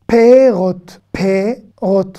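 "perot" in two separated beats, pe-rot; perot without yod. Shown as a demonstration. Teacher modelling the plural of fruit, yod left silent. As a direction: stretch a plain é in "perot", no i glide. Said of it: "Ici, on peut prononcer peirot".

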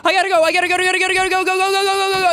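high, hurried urging; frantic urging. Real, not acted. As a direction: push yourself on, frantic. Rushing in game.

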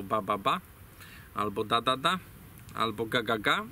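put-on "ba, ba", "da, da", "ga, ga" as a child's first syllables, repeated evenly; baby babble. Shown as a demonstration. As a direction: babble "ba", "da", "ga" like a toddler. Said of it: "dzieci zawsze jako pierwsze wymawiają". (dziecięce gaworzenie "ba, da, ga")

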